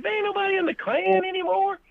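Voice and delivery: very high-pitched impression of a woman; imitated lady. Lady agrees about the Klan, imitated in high voice. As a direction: put on her voice way up high. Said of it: "She's like".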